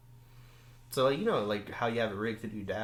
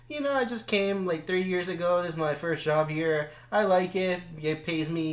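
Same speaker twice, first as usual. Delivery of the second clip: put-on higher, light girl's voice; imitating the girl; 6 semitones higher than usual. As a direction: retell her chatty answer in her voice. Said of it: "She's like".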